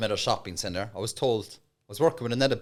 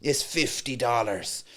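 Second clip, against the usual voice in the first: loud sales persona; much slower than usual. Acted. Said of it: "changed my whole persona, big loud voice".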